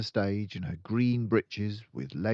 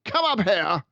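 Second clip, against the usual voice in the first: much louder, higher command; shouted; 14 semitones higher, 12 dB louder than usual. Acted. Headmistress ordering the boy up, with a loud shout. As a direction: shout it across the hall. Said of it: "the Trunchbull shouted".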